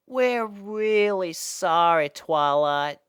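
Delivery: high, slow sheepish voice; guilty apology. Acted. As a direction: apologize ashamed. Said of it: "looked down in guilt".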